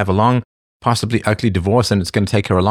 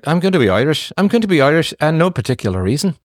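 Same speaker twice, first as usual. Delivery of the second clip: higher-pitched mock Irish accent; Colin Farrell Irish accent; 4 semitones higher than usual. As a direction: lightly send up an insistent Irish accent. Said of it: "Colin Farrell, it's just like".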